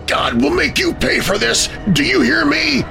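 high, desperate outburst; anguished, high-pitched fury; furious curse. A narrator's reading. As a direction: cry out the threat, pitch climbing at the end. Tortured victim curses his attacker.

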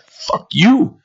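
high-pitched mock yell; retold yell. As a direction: imitate an angry outburst, pitch leaping. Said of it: "yells at him".

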